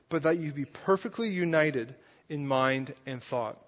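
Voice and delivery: slow, measured reading of scripture. Acted. Pastor reading Paul's letter to the congregation, slow and measured. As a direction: read the verses slowly and deliberately. Reads the scripture passage aloud.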